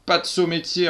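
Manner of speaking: urgent cry. A narrator's reading. Reprend-elle.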